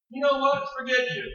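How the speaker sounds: high, scornful brush-off; husband brushing off his wife, high and scornful; dismissive. Retold or imitated. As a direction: dismiss her in contempt.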